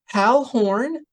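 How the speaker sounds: a thrilled call of recognition; excited call. A narrator's reading. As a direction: call his name with glee. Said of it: "called excitedly".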